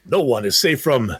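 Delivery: horror trailer voice. Pretend. Trailer voice again.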